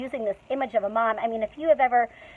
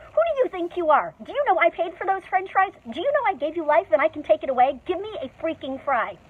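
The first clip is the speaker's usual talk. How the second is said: mock mama bear rant; 6 semitones higher than usual. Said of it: "I reacted like a mama bear robbed of her cubs".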